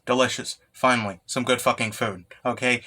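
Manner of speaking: a light take on a celebrity chef; Gordon Ramsay. Retold or imitated. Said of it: "As Gordon Ramsay would say".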